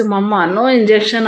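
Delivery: slow, understated tearful plea; a child pleading through mild tears; crying. Acted. Sick little boy begging his mother, slow and mildly tearful. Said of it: "అన్నాడు ఏడుస్తూ".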